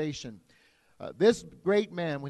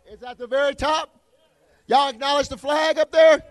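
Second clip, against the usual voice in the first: rally speech; 8 semitones higher, 11 dB louder than usual. Real, not acted. Calling out to crowd.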